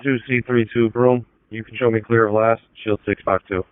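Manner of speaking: police radio. Real, not acted. Dispatcher clearing unit over radio.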